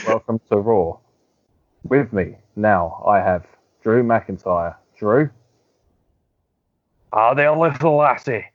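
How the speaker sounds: stiff, slow backstage interviewer read; robotic interviewer. Retold or imitated. Backstage interviewer welcoming Drew McIntyre, slow stiff mock read.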